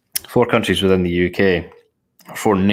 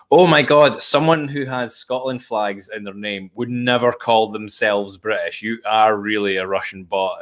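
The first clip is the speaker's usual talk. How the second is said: mock outraged girl. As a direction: ham up her shocked accusation. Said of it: "she was like".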